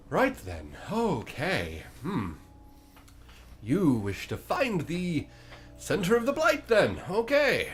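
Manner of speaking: a chipper monster eager to bargain; high creature voice. Acted. GM's bone creature answers the party, high and chirpy.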